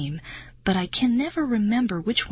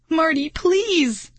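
slow, high, pleading cry; desperate plea; 10 semitones higher, 3 dB louder, much slower than usual. A narrator's reading. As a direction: beg him for help. Begging friend for help, worms falling.

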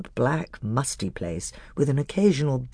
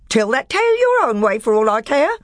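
sneering dwarf; 11 semitones higher, 7 dB louder than usual. A narrator's reading. Nickabrick sneers at the badger.

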